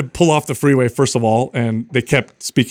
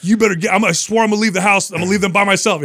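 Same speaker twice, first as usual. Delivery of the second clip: imitating frazzled wife; 6 semitones higher, faster than usual. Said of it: "And she's like".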